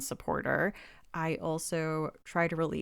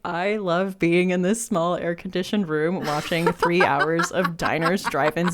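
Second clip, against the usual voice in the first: excited; 7 dB louder than usual. Retold or imitated. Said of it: "I'm like".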